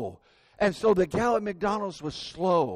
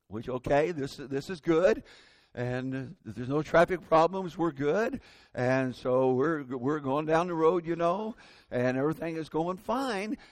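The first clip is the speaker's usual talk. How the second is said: patient, at ease; 3 semitones lower than usual. Retold or imitated. Driver telling himself the trip is fine, patient. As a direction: talk as if all is going fine. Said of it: "I'm patient about it".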